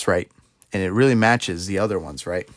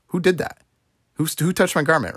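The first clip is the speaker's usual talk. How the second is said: pitched-up, searching demand; startled question; 6 semitones higher than usual. Retold or imitated. Jesus halting in the crowd, startled and high. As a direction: stop short and ask who did it. Jesus stops, asks who touched.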